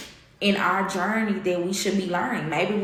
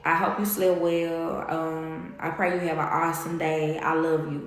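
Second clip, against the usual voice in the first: tender morning greeting, lightly re-enacted; morning sweet talk. Woman retelling her morning text to her partner, tender. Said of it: "that's how we talk in the morning time".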